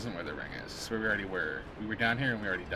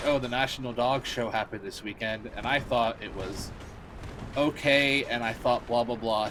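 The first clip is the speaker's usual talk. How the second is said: mock Phil DeFranco. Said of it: "Phil DeFranco was like".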